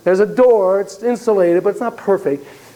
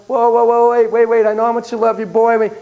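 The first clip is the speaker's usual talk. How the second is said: higher, insistent placating; urgent intervention; 5 semitones higher than usual. Retold or imitated. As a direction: cut in to calm him down. Therapist intervenes to calm raging stepdad.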